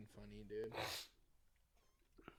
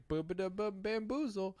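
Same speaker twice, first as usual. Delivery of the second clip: higher, lightly voiced character catchphrase; imitated game quip; 8 semitones higher than usual. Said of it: "so he always says".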